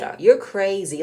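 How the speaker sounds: mock irritated snap, drawn out; agitated retort. Dismissing the sister's question, mock agitated. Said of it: "he got really agitated, really irritable".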